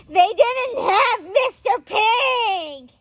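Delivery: high, loud wail of outrage, drawn out; indignant outburst. Real, not acted. Fan venting about the remake's missing line, indignant outburst. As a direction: cry it out in exaggerated disbelief.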